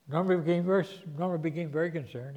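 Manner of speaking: usual speaking voice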